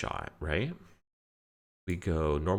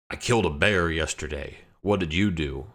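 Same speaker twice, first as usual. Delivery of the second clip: Skyrim NPC line; 6 dB louder than usual. Retold or imitated. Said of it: "a Skyrim N P C voice line".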